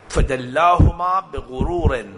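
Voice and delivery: slow Quranic recitation. Acted. Preacher reciting the verse to the congregation, slow and solemn. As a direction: stretch each syllable of the verse, measured and solemn.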